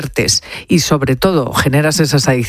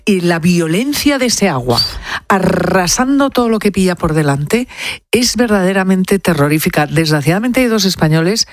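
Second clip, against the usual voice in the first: ordinary delivery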